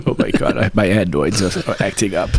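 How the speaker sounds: lightly voiced nervous kvetching Woody Allen. Friend hams up a fussy plea for a blessing, lightly nervous. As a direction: fret about adenoids like a neurotic New Yorker. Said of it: "do the Woody Allen sort of thing".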